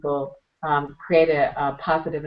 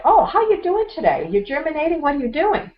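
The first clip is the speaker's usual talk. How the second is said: high-pitched, chirpy mock check-in; playful cooing; 11 semitones higher, 5 dB louder than usual. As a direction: fuss over it like a tiny pet. Talking playfully to a buried seed.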